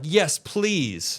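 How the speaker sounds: high, eager mock plea of "Yes, please"; mock eager reporter. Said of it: "They're all like".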